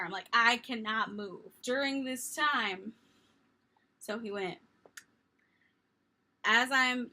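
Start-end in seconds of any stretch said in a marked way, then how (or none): 0.3-1.5 yelling back. Retold or imitated. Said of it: "I'm, like, yelling back to her".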